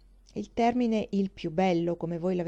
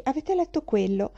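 mocking quote; 5 semitones higher than usual. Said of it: "quell'interminabile conversazione che comincia".

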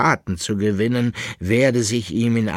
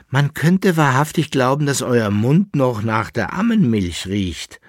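higher, louder teasing laugh; 5 semitones higher, 5 dB louder than usual. A narrator's reading. Masked lady teases the young captain, laughing. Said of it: "sagte lachend die maskierte Dame".

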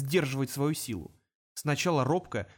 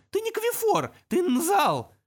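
much higher, squeaking imp; shrill imp accusation; 5 dB louder, slower than usual. Acted. Imp exposing the demon, high and indignant. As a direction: cry out the accusation.

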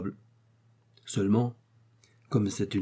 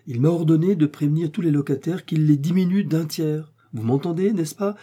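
higher and louder, worked up; agitated; 5 semitones higher, 3 dB louder than usual. Acted. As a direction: blurt it out in a fluster. Porter reports the order.

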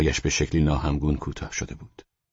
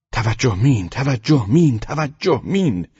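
raised, swooping warning calls; shouting; 9 semitones higher, 6 dB louder, slower than usual. A narrator's reading. Squad warning the approaching driver of mines, shouting. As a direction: call it out in a run, stretching the last. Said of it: "ما دوباره داد زدیم".

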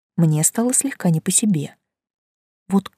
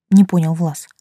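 ordinary delivery, nothing marked

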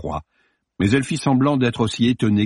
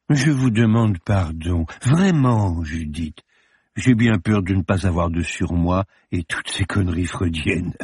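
conciliatory; 2 semitones lower than usual. Acted. Morbus apologising to Judith, conciliatory. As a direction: sound almost sorry. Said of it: "plus conciliant, presque navré".

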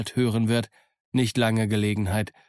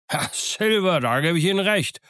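high, eager exclamation; Squire calls out; 7 semitones higher than usual. A narrator's reading. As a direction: burst out in hearty agreement. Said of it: "rief der Squire". (ausgerufen, eifrig und hoch)

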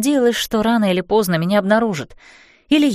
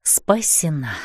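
relieved exhale; 4 semitones lower, 5 dB quieter, slower than usual. A narrator's reading. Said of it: "выдохнула с облегчением".

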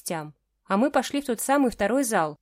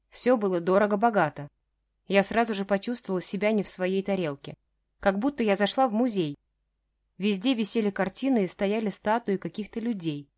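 ordinary delivery, nothing marked

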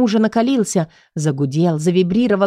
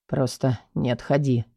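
much softer and lower, a low calm warning; hushed husband's instruction; quiet; 6 semitones lower, 7 dB quieter than usual. A narrator's reading. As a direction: keep it low and hushed for the wife. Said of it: "тихо произнёс муж".

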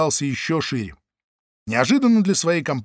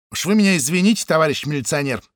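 mock meekness. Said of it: "с напускной покорностью пробурчала она".

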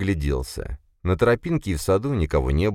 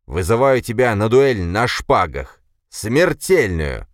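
loud, higher formal challenge; furious challenge; 5 semitones higher, 5 dB louder, slower than usual. A narrator's reading. Bloodied Boris challenging his brother to a duel, loud and furious. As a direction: hurl the challenge at him.

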